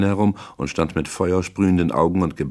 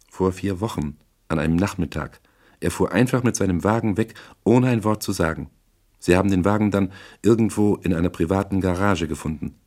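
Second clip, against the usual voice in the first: slightly higher woman character, subdued account; lightly voiced client recounting; 3 semitones higher than usual. Voices Misses Regan in narration.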